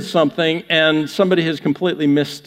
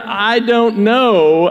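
slow, stretched "I don't know"; drawn-out reading; 2 semitones higher, much slower than usual. Shown as a demonstration. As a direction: draw out every word. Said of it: "can come across a number of different".

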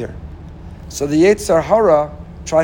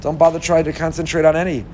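voice of the evil inclination. Acted. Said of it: "the Yetzer Hara could say".

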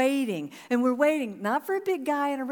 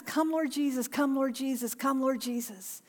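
softer, fading prayerful repetition; quiet repeated prayer; 5 dB quieter than usual. Shown as a demonstration. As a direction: murmur it as a prayer over the room.

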